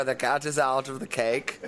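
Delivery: laughing through a made-up saying; amused mock-solemn idiom through laughter. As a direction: giggle out the fake proverb as if it were real. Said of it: "As we say in America".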